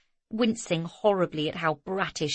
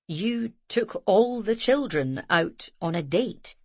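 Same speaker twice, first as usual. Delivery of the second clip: consternation; slower than usual. A narrator's reading. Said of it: "asked Ramsay in consternation".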